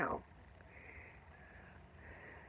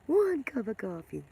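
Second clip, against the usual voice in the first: laughing repeat; 2 semitones higher than usual. Real, not acted. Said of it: "like I'm vibrating on a higher level".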